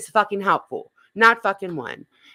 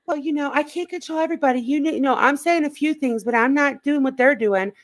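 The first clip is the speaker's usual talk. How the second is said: mocking quote of the woman; 5 semitones higher than usual. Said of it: "she was over there saying".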